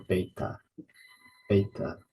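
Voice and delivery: "beta" with a B, as BAY-ta; ancient Greek pronunciation. Shown as a demonstration. Teacher giving ancient Greek form, "beta" as BAY-ta. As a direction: say "beta" with a B, not a V. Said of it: "for ancient Greek, we pronounce it".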